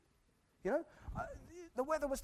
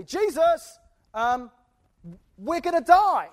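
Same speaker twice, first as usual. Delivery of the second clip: higher, louder, mock panic; panicky disciples, mock; 5 semitones higher, 15 dB louder, slower than usual. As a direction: play the scared disciples lightly. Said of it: "they didn't say it like that".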